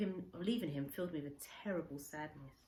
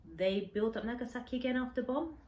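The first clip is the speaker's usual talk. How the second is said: a lightly voiced old man, higher and a little louder; Kensuke asking; 7 semitones higher, 5 dB louder than usual. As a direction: ask about home in a hint of Kensuke's voice, higher. Kensuke asks about Nagasaki.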